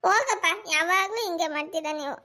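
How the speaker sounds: mildly weepy brush-off; a touch of crying in the complaint; tearful sulk. Acted. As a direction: push dad away through acted tears. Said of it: "ಸರಿ, ಅಳ್ಬೇಡ ಬಾ".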